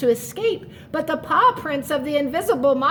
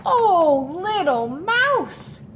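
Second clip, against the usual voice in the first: reassuring; 3 semitones higher, much slower than usual. Acted. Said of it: "said Big Mouse".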